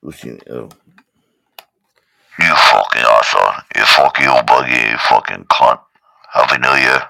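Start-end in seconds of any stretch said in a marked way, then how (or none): 2.4-7.0 low, loud, slurred-sounding abuse; Caps impression. Caps as the alarm cursing Rico, low loud impression. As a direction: growl insults then grudging praise. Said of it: "She's got, like, a Caps accent".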